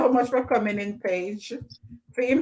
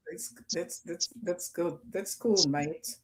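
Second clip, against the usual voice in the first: softer, lower put-on British accent, playing at being English; a jokey American try at a British accent; hammed-up Cockney-style British, soft and low; mock British accent; 5 semitones lower, 8 dB quieter than usual. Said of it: "people in the U K do not talk good about a cup of tea".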